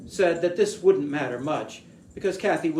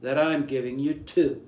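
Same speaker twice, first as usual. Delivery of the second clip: mocking New England accent, lightly done. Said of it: "Castwell mimicked the driver's New England accent".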